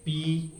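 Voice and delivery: पी with a drawn-out ee; लंबा उच्चारण. Shown as a demonstration. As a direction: hold the vowel in पी too long. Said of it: "ये नहीं कहना है". (पी को लंबा खींचकर)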